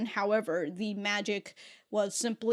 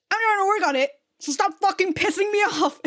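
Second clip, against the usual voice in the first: much higher, loud fed-up snap; irritated Catra; 10 semitones higher, 5 dB louder than usual. Retold or imitated. Catra telling the crew to stop annoying her, loud irritated. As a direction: bite it out, fed up and warning. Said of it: "her own way of just saying".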